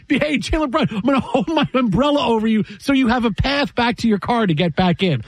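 laughing, high-pitched fan impression; imitating an eager fan. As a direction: play a fan's offer through a laugh. Acts out an adoring fan offering umbrella.

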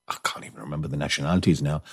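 quick whisper tossed off to the side; whispered aside. Real, not acted. Aside to listeners while telling the story, in a quick whisper. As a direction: drop to a hurried whisper, as if confiding.

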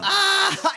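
loud, high-pitched "Ah!"; mocking outcry. Real, not acted. Cohost hears the deal was pulled, mocking outcry. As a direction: cry out high, tipping into laughter.

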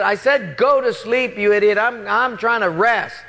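acted angry yell, pitched high; exasperated anger. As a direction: snap back at a pest who won't let you rest. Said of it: "I got so mad".

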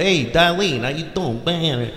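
lightly voiced odd guy, softening as he goes; a hint of a goofy put-on accent; mock awkward come-on in an odd voice; oddly talking suitor. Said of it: "why he talks like that".

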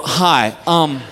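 low, slow, long awkward pauses; mortified halting request. Acted. Dad asking drugstore woman for pads, mortified and halting. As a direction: force each word out in embarrassment.

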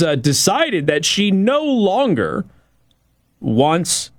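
halting speech broken by hiccups. Real, not acted. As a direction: talk through the hiccups with odd pauses. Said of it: "I've had the hiccups all show".

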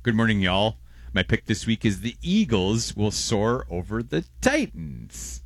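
mild put-on folksy voice, slow; voicing a listener. Host reads a listener's football pick in a light put-on voice. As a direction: read it slow, as the listener would say it. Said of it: "Should we try and read his pick?".

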